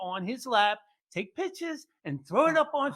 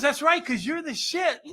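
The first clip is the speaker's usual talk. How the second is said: laughing tease; 6 semitones higher than usual. Retold or imitated. Son teasing dad.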